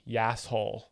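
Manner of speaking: "Yasshole" as one word; blended together. Shown as a demonstration. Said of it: "blend those words together".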